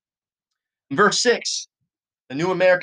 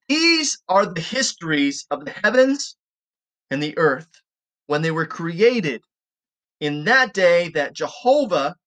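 slow, emphatic Bible reading; scripture reading. Acted. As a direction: read the verse out deliberately, weighting key words. Reads scripture aloud.

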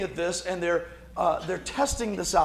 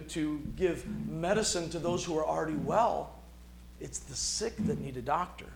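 soft, gentle and calm reply; gentle Jesus; 6 dB quieter than usual. Retold or imitated. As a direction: say it softly, gently reassuring. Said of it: "He just very gently responds".

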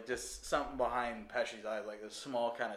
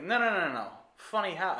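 Pesci impression; 5 semitones higher, 4 dB louder than usual. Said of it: "He's like".

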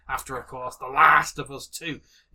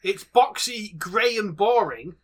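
worked-up rant, pitch raised; getting angry; 5 semitones higher than usual. Real, not acted. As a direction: complain with rising irritation. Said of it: "sorry, I'm getting angry".

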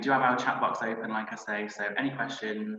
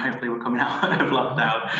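laughing; 5 dB louder than usual. Real, not acted. Hopeful aside about leaving lockdown.

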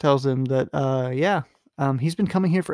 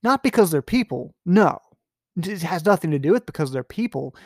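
emphatic; 4 semitones higher, 4 dB louder than usual. Real, not acted. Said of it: "emphatic commentary".

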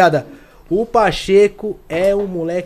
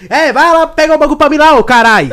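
bossy wife; 9 semitones higher, 10 dB louder than usual. Retold or imitated. Acts bossy northeastern wife ordering.

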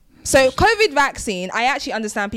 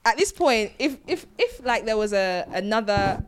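slipping into a Nigerian accent while getting heated. Real, not acted. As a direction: lets her Nigerian accent come out as she gets worked up. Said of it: "Why are you speaking in a Nigerian accent?".

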